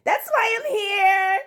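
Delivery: slow, loud declaration; emphatic close. Real, not acted. Vlogger declaring her purpose to viewers. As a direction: drive the point home slowly.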